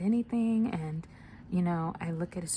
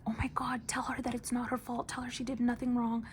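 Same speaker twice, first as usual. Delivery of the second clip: mild mock panic, pitched higher; retold frantic plea; 6 semitones higher than usual. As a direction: imitate a distraught daughter begging, voice raised in pitch. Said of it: "she started screaming".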